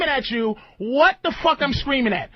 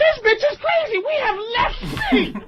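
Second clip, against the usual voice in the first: emotional outburst; 8 semitones higher than usual. Real, not acted. Host yelling at a combative guest, real anger. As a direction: blow up in real frustration. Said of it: "He sounds emotional".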